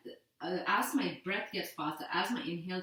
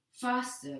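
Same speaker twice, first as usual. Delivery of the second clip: calling faster; 6 semitones higher, 3 dB louder than usual. Shown as a demonstration.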